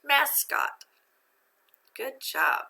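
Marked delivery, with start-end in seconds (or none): 0.0-0.8 "Mascot" higher, both syllables fully sounded; "Mascot" as a raised, careful read-out; syllables read together. Shown as a demonstration. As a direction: blend "Mascot" from its two parts, high on the word. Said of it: "Read it together".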